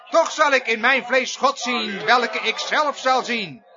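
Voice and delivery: emphatic pulpit recitation, key words driven home; forceful preaching. Acted. Preacher quoting Job's confession to the congregation, forceful preaching. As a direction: declaim Job's words with ringing conviction.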